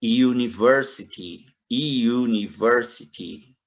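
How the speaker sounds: "University" slowed, opening with a Y glide; model pronunciation. Shown as a demonstration. Teacher drills "university" for students, Y glide. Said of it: "como se tivesse um Y na frente".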